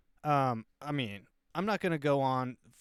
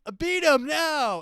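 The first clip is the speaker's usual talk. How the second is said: much higher and louder, shrieking command; frantic yelling; 13 semitones higher, 11 dB louder, slower than usual. Retold or imitated. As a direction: scream the order at the mob. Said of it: "he starts yelling at the black people".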